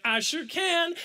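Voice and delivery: high, self-satisfied boast; cocky reply. Retold or imitated. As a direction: play it eagerly smug. Boasting reply to admiring friends.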